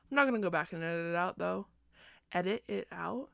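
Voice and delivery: sleepy, slurred speech; words slurring from late-night tiredness. Real, not acted. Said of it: "I'm sorry if I'm slurring my words".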